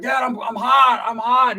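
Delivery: high, slow whiny shout; son shouting back. Retold or imitated. Son in pool answering his dad, high whiny shout. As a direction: whine it loud and drawn out.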